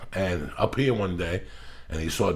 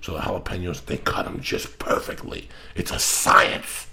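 hushed reverence. Real, not acted. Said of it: "reverent whisper about jalapenos".

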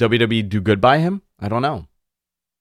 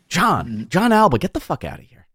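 mock angry Tony; 6 semitones higher than usual. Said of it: "It's like".

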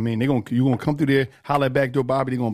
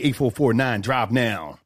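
radio voice; 5 semitones lower, much slower than usual. Shown as a demonstration. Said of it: "That's my radio voice".

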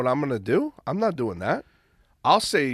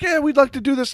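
imitating sales rep; 11 semitones higher than usual.

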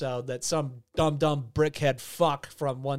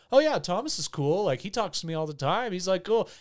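imitating contestants; 4 semitones higher than usual. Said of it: "they're like".

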